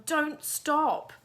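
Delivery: loud urgent yell. Acted. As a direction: shout over your shoulder while running. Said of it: "would yell".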